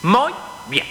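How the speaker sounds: high-pitched teacher's praise; schoolteacher approving. Acted. Teacher praising the class's unison answer, high approving voice. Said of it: "la maestra".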